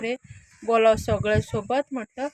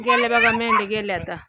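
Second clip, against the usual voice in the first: calling out; 4 dB louder than usual. Real, not acted. Calling out as sheep leave.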